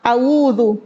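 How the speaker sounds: awuzu with a "w" glide in place of the ain; awuzu, rounding the ain into a "w"; ain turned to wawu. Shown as a demonstration. Teacher imitates the wrong wawu reading. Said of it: "Ada juga yang baca awuzu".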